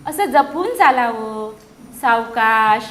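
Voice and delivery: slow, gentle snail advice; snail scolding. Acted. Snail slowly advising the centipede to walk carefully. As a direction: draw out सावकाश, teaching patience. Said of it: "गोगलगाय म्हणाली".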